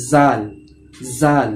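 জাল with a Bengali j, tongue kept in; the mistaken জাল; plain j in জাল; wrong pronunciation. Shown as a demonstration. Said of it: "এটা হচ্ছে ভুল উচ্চারণ".

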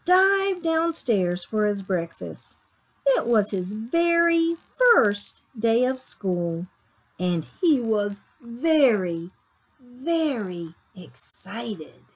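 expressive picture-book reading; story narration. A narrator's reading. Reader tells children of Sammy's first day, story narration. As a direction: read to young children, savoring key words.

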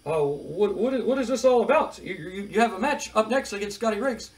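a hint of a veteran interviewer. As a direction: play the puzzled announcer pressing for answers. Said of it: "Mean Gene's just like".

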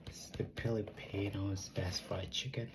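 soft ASMR whisper. Acted. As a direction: whisper it like a secret. Whispered aside.

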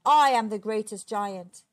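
loud angry giant's roar; booming, furious storybook giant. A narrator's reading. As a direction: roar it out in a rage. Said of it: "he roared".

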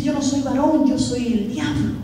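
lightly voiced devil, low and slowing at the end; a low, mock-sorrowful confession; sad devil. Downcast devil answers the pastor who asks him why he cries, lightly acted low voice. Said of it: "¿Por qué está llorando?".

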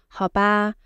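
a little let down; disappointed. Shown as a demonstration. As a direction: sigh it out, disappointed. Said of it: "It's a little bit disappointed".

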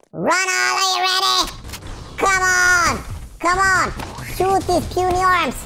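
high, called-out challenge; battle taunt. Pretend. Player daring the boss to shoot, high taunting call.

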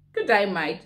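"mate" said as "mite" in imitated Australian; Australian greeting. Newcomer quoting Australian slang to viewers, imitated Australian accent. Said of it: "you hear different things like".

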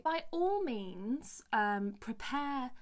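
drawn-out, over-obliging imitation; gushing show recruiter. Show scout answering her plan to sing an original, mock gushing. Mimics the show woman's reply.

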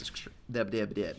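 stumbling over the word; tongue-tied. Real, not acted. Player fumbling "mass extractor" mid-explanation, tongue-tied. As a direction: trip into stuttered false starts. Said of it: "Try, try that one again".

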